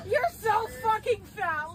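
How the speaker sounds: slow, loud crying insult; tearful shouted insult. Real, not acted. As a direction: sob the insult out. Crying insult while restrained.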